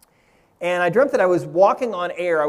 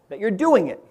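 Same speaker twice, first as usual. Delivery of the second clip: "doing" punched louder in "that you're doing it"; stress on DOING; 2 semitones higher, 4 dB louder than usual. Retold or imitated. Teacher tells the kids the key to floating, stressing DOING. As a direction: lean firmly on the word doing. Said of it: "Emphasis on that word doing".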